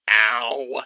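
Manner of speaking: deadpan reaction to pain; flat, unimpressed. A narrator's reading. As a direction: say it without any feeling. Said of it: "he said flatly".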